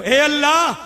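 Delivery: emphatic supplication. Retold or imitated. Preacher restarts the Prophet's prayer for his listeners, emphatic supplication.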